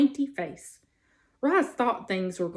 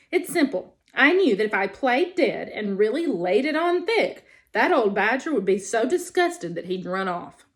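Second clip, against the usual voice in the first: lightly voiced chatty possum. Possum boasts to the robot about her act, lightly voiced. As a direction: play a proud stage ham of a possum.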